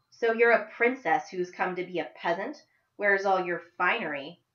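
mock her as a fallen princess; teasing a rich girl with biting scorn; smart and biting. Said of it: "Her voice was smart and biting".

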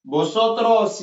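slow, drawn-out teacher modelling; slow rising list, like reading for the class; slow model drill. Shown as a demonstration. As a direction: stretch each form out for learners to copy. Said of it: "Yasin يسمع مزيان".

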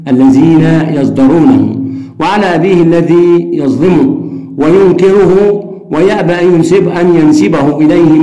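measured literary reading of a passage; reading aloud. Shown as a demonstration. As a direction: read the passage like a textbook excerpt. Reads novel passage aloud. (قراءة أدبية متأنية)

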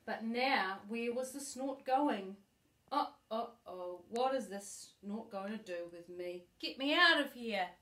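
a hint of a scared little bird; mock fright. The baby bird stuck on the snort, mock frightened plea. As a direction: plead to be let out, mildly alarmed.

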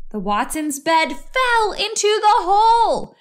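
high, rising excitement; dramatic narration. A narrator's reading. Narrator telling children of the crash, high excited voice. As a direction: build up high as the bed drops.

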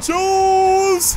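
long, high, loud call; drawn-out shout at an opponent; yelling a rival's name. Real, not acted. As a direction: holler the name in frustration.

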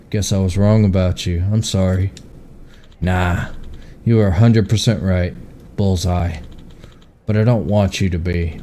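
uncle admitting he was wrong; gruff uncle voice. Acted. Voices uncle, quiet and low.

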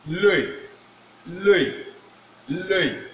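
"le" drilled with rounded French vowel; French pronunciation. Shown as a demonstration. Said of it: "say what?".

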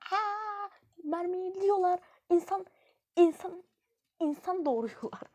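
high, loud disbelieving cries; shocked shriek. Real, not acted. Gamer shrieking as enemies keep spawning.

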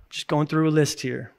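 whispered, under the breath; quiet whispered aside. Real, not acted. Aside while reading list.

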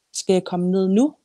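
put-on child's question with a rising end on "nu". A narrator's reading. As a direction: lift "nu" into a question. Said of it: "spurgte jeg".

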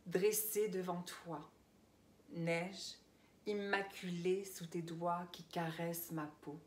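intimate, unhurried verse reading; poetry recital. Acted. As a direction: let each image settle before the next, fading to a hush at the end. Reads own poem aloud.

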